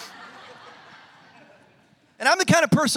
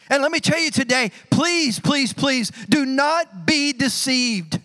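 slow pleading sermon voice; pleading preaching; 2 semitones higher, slower than usual. Acted. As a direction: plead with the congregation. Preacher's urgent plea.

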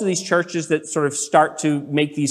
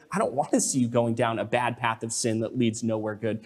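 caring confrontation; 4 semitones lower, 7 dB quieter than usual. Acted. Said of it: "if you really care about them".

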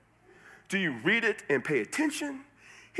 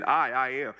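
"I, I am" said with emphasis; emphatic; 4 semitones lower than usual. Shown as a demonstration. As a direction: stress on "I, I am". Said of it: "It's emphatic".

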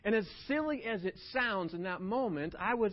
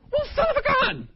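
laughing exclamation; 14 dB louder than usual. Retold or imitated.

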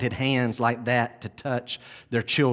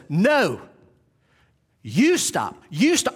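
loud, higher firm rebuke; Jesus rebuking; 6 semitones higher, 4 dB louder, slower than usual. Acted. Jesus rebukes his disciples, loud and firm. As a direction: stop them short with authority. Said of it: "the Lord says".

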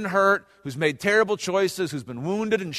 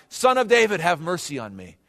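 moderately raised imitation of a desperate call; crying out loudly. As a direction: call out for mercy, pitched up at first. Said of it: "cries out loudly".

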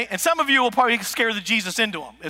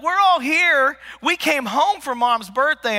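sisters calling out; 5 semitones higher, slower than usual. Retold or imitated. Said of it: "the girls are like".

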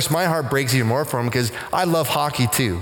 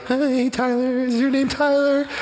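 pitched way up, pushy and too bright with the name; hammed-up pushy hello, much higher; mock over-eager greeting; 10 semitones higher than usual. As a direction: play the overzealous stranger hard. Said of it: "not like".

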